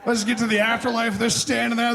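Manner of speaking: usual speaking voice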